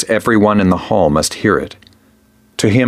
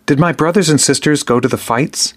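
voice hitches a little; 7 semitones higher than usual. A narrator's reading. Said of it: "his voice hitches a little".

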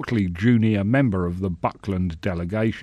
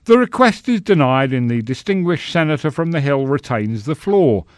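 mouth full; 5 semitones higher, 5 dB louder than usual. Acted. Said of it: "recited the Thane of the Shire".

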